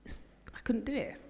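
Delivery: breathy whispered confession. Real, not acted. Pastor confessing to his congregation, whispered. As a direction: drop to a bare whisper, intimate.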